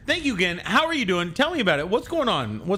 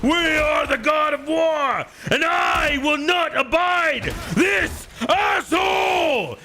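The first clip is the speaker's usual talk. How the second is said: high, drawn-out hammed-up war cry; mock battle roar; 11 semitones higher, slower than usual. Gamer playing war god to his enemy, hammed-up roar. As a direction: bellow it slowly like a raging war god.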